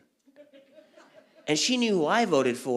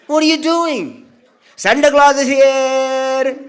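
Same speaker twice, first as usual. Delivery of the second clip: hammed-up dad as Santa; 10 semitones higher, 11 dB louder, slower than usual. Dad playing Santa, loud.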